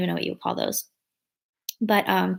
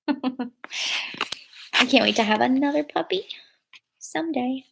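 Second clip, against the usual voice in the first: whisper; 3 semitones higher, 3 dB quieter than usual. Real, not acted. Whispering next to her sleeping dog, soft hush. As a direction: whisper so the dog stays asleep.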